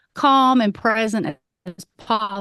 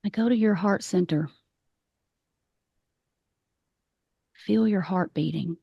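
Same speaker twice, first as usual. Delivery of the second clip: calm meditation guide with long pauses; guided meditation. Acted. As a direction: lead the breathing gently, leaving space between phrases. Leads a grounding meditation.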